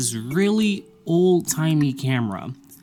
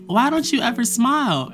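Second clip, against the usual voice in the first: a nagging professor, pitched higher; mock professor voice; 7 semitones higher than usual. Mocking the professor who asks why she never smiles. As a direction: put on the teacher's prying tone. Professor quote in retold classroom story.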